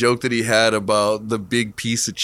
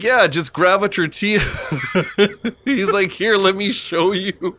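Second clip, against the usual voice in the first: eager imitation; 8 semitones higher than usual. Retold eager convert showing another person.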